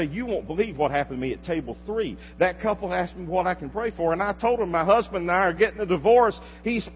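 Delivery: waitress's story climbing to a loud, high-pitched peak; building desperate testimony. Acted. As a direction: build from telling it to crying out in amazement. Acts waitress's desperate, amazed testimony.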